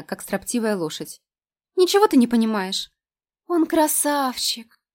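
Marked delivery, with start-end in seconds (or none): 1.8-4.8 languid sigh. A narrator's reading. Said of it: "томно выдохнула она".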